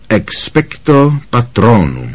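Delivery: slow, measured incantation; demonstrating the spell. A narrator's reading. Lupin shows Harry how the formula sounds, measured demonstration. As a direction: pronounce the formula clearly and slowly. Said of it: "Ta formule zní takhle".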